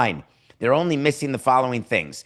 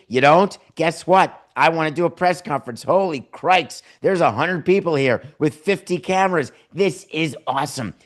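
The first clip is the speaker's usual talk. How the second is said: giddy new owner. Retold or imitated. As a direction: ham up a starstruck billionaire at his first presser. Mocking new owner's giddy speech.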